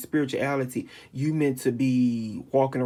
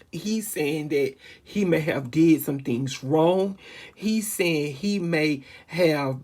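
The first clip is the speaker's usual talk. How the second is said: tearful; 2 semitones higher, slower than usual. Real, not acted. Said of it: "I'm about to start crying".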